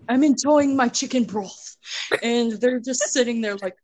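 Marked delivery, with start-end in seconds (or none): 0.1-1.8 mock British. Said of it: "I can't do a British accent".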